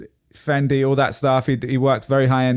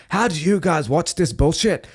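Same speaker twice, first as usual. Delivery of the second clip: light Belfast accent, imitating a Scottish guy; a quick mock Belfast accent on the quote; Irish accent; 3 semitones higher than usual. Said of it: "sorry, I did an Irish accent there".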